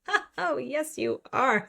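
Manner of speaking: high, drawn-out swoon; swooning reply. Acted. Reader answering the romance hero's line, hammed-up swooning. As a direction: gush it, pitched well up and stretched out.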